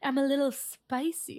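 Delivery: slow, teasing boast; playful imitation of showing off; mock self-description. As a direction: draw it out as a coy brag. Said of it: "you're like".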